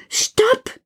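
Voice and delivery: very high shout, slow on Ruhe; calling out stop. Acted. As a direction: command the toys to freeze. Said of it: "Und rufe". (hoch gerufen, energisch, Ruhe gedehnt)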